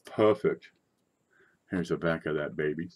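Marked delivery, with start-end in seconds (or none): 0.1-0.7 Perfect said in a posh British accent, a clipped crisp "Perfect". Shown as a demonstration. Coin seller repeating the grade to viewers in a British accent. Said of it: "Say it like you're British".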